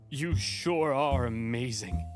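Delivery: slow starry-eyed praise; gushing admirer. Acted. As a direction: draw it out in awe. Praise in a put-on voice.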